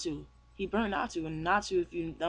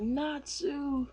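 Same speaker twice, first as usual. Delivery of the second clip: high call, held back in volume; acted alarmed call; 8 semitones higher than usual. Cat calling to his friend under attack, alarmed.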